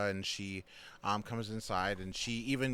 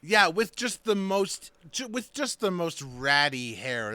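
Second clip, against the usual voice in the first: excited; 7 semitones higher, 7 dB louder than usual. Real, not acted. Describing a terrifying doll.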